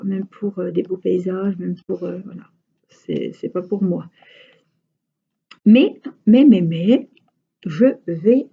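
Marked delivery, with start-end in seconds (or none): 5.6-8.5 loud, drawn-out "Mais, mais" with pitch swoops; emphatic teasing build-up. Real, not acted. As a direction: stretch each "mais" and "je vais", pausing between for suspense.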